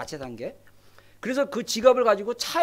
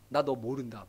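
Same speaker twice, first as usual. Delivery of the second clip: hushed rejection; 12 semitones lower, 10 dB quieter than usual. Acted. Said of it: "그러니까".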